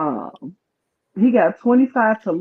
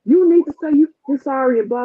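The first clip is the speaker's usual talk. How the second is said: higher-pitched, insistent retold demand; mock scolding, pitched up; going off; 6 semitones higher than usual. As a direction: imitate a pushy telling-off. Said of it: "starts going off".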